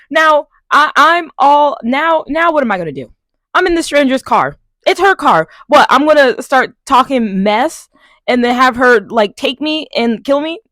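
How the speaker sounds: loud, high, rising panic; panicked rant. Real, not acted. Panicking about being in car.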